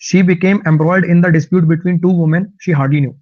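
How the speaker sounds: very slow, word by word English reading; slow dictation reading. Shown as a demonstration. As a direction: read each word out clearly for learners. Reads example sentence slowly.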